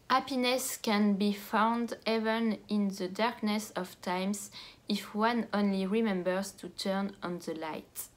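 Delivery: slow English reading in French accent; bad French accent. Real, not acted. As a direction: read the English quote carefully with a thick French accent. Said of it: "avec mon accent pourri".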